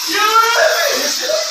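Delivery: high alarmed exclamations; alarmed cry. Acted. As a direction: cry out in shock. (صيحة فزع عالية)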